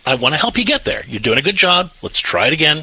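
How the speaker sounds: encouraging parent voice, lifted pitch; encouraging, not mean. Shown as a demonstration. Parent helping a daughter retry respectful words, encouraging. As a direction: coach the child on with kindly patience. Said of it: "you're not being mean through this".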